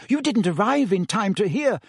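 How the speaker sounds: earnest, high-pitched insistence. A narrator's reading. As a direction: press the point sincerely. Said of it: "said Hermione earnestly".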